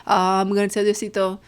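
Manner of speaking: lightly voiced tattling child; kid snitching.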